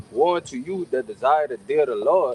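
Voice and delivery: scripture reading. Real, not acted. Reads scripture aloud.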